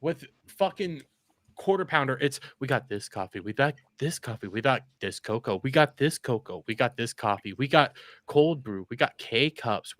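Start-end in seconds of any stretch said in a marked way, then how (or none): 2.6-10.0 lightly mocking, repetitive product rundown; monotone sales pitch. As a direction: drone through the list like a dull pitchman. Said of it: "He does that monotone ass voice".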